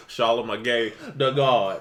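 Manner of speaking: slow, drawn-out name reading; Webby. Acted. Cohost imitating Webby reading names, slow and drawn out. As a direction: stretch each word of the name. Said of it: "Webby just reads stuff".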